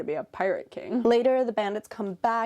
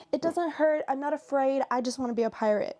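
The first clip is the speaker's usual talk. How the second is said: lightly voiced boy, higher pitch; a hint of a protesting kid, pitched up; defiant little kid; 5 semitones higher than usual. Boy insisting to those laughing at him, lightly defiant. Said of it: "everyone's kinda laughing at him. And he's like".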